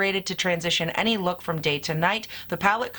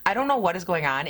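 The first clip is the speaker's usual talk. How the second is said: hoarse, losing her voice; rough laryngitis voice. Real, not acted. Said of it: "I sound like I'm getting over a massive case of laryngitis".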